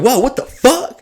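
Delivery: high startled yelp of words; acted alarm. Visitor watches the colt kicking, acted alarm.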